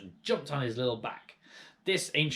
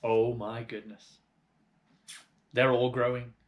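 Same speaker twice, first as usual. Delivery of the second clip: excited shout, slowing on the first words; astonished farmer shouting; 5 dB louder than usual. Acted. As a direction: cry out in amazement as the animals swell. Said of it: "shouted Mister Cranky".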